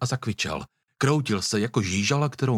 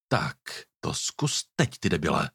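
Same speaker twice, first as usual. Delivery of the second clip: taunting; 6 semitones lower than usual. A narrator's reading. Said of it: "provokoval Tobiáš".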